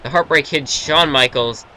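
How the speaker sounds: wrestling commentator calling the match; steady ringside play-by-play; play-by-play commentary. Acted. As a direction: call the action like a TV announcer.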